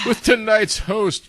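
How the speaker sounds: slow, high announcer read. Acted. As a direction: introduce the host like a TV announcer. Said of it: "sounded like the S N L announcer guy".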